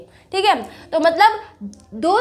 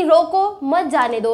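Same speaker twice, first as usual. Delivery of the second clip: रोको set apart by a brief pause, then मत जाने दो; pause after रोको; slower than usual. Shown as a demonstration. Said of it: "उसमें थोड़ी देर के लिए रुके".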